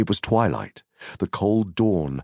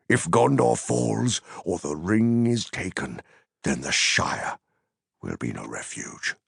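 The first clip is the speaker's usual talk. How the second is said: grave Gandalf. Acted.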